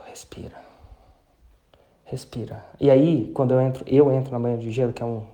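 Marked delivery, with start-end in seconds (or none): 0.1-2.6 calm yourself down gently; calming self-talk. Shown as a demonstration. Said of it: "é isso que eu falo".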